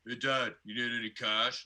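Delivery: lightly voiced eager twelve-year-old; a hint of a breezy preteen son; imitating his son. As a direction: offer cash like a casual kid. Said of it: "flawless impersonations".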